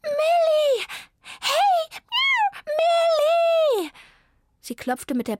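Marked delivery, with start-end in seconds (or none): 0.0-3.9 high, loud cat calls; calling out. A narrator's reading. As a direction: yowl her name to get her attention. Cat calls friend through window. (laut und hoch rufende Katze)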